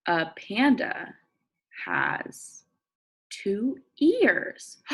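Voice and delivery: slow, clear read-aloud; reading to children. Acted. Teacher reading a picture book to her class. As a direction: read each word out for young listeners.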